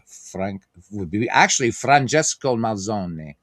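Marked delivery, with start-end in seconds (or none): 1.7-3.3 Francesco Malzone with the final E said as ay; Italian pronunciation. Shown as a demonstration. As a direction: give Francesco Malzone its full Italian sound, mal-ZO-neh. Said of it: "how you say the name Italian".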